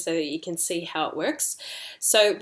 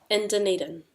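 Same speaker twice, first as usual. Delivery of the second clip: DUNEDIN said evenly, dropping at the end; expression intonation. Shown as a demonstration. Teacher runs through the sequence, expressive tone on DUNEDIN. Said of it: "So we have expression".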